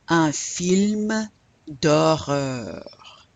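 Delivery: D'HORREUR drawn out slowly with French R sounds; French R demo. Shown as a demonstration. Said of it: "I wanna hear that R".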